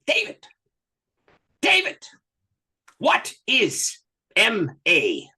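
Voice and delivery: put-on slow, high-pitched Ugandan-accented call, drawn out; a Ugandan preacher, interrupting his sermon to call the pastor by name, in a thick Ugandan accent. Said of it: "with a thick Ugandan accent".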